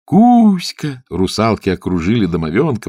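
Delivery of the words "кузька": excited call. Acted. Mermaids call his name.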